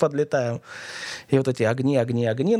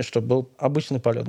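normal talking voice

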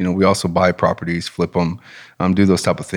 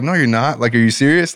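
higher-pitched, incredulous retort; retold disbelief; 5 semitones higher than usual. Mailman doubting the man's sudden healing, retold in disbelief. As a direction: doubt him, as if he must be joking. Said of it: "I was so much in doubt".

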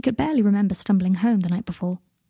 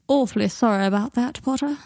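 drawling; 3 semitones higher than usual. Acted. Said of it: "he drawled".

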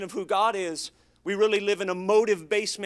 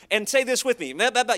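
imitating preacher; 3 semitones higher, 5 dB louder, faster than usual. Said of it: "he was like".

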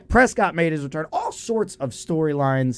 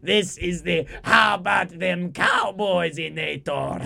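slow, shouted villain announcement; a hint of the mad scientist unveiling his machine; mock cartoon villain proclaiming; Doofenshmirtz voice; slower than usual. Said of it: "sound like Doctor Doofenshmirtz".

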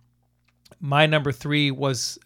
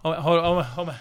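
Southern belle; 2 semitones higher, much slower than usual. Pretend. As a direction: swoon like a Southern lady. Mock Southern exclamation.

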